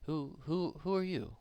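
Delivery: a lightly voiced hobgoblin, polite and puzzled.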